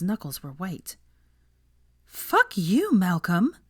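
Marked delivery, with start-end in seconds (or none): 2.0-3.6 high, loud furious retort; angry outburst. A narrator's reading. Hermione lashing out at Malcolm, furious. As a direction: spit it at him in disbelief. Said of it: "she said at last".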